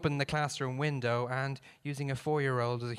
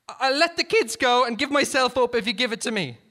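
shouting; 9 semitones higher, 8 dB louder than usual. Acted. Shouted exchange.

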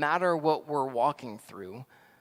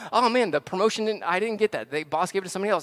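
high, louder mock complaint; spinning out; 4 semitones higher, 5 dB louder, faster than usual. Worker passed over for promotion, complaining in mock distress. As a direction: whine about it in acted exasperation. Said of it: "now I'm spinning out".

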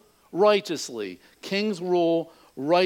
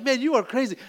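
higher-pitched mock disbelief; exasperated bikers; 6 semitones higher than usual. Biker baffled by the laughing driver, mock exasperated. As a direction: marvel at him in acted exasperation.

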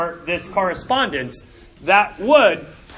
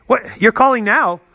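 loud, lively pretend phone greeting; mock phone pickup, louder than lecturing; pretend phone call; 4 dB louder than usual. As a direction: answer a make-believe call, taken aback by the hour. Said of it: "let me just pretend that it rings".

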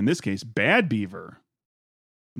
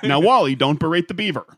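Ward Cleaver voice; 3 semitones higher, 4 dB louder than usual. Retold or imitated. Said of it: "Ward, Ward and June jokes".

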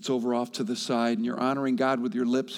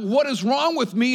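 questioning cry; 11 semitones higher, 6 dB louder than usual. Acted. Voiced self-pity prayer.

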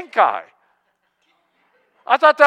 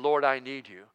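quiet prayer; 4 semitones lower, 7 dB quieter than usual. Retold or imitated. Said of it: "all quiet in your prayer closet".

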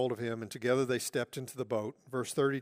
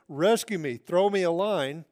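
louder, urgent call for help; mock shout for rescue; 3 semitones higher, 8 dB louder than usual. Peter calling to the disciples from the water, loud. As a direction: call out to the boat like a sinking man.

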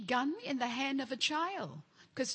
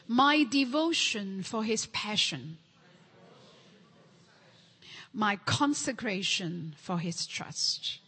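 man and woman together; 4 dB louder than usual. Real, not acted. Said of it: "Shall we train our brain?".

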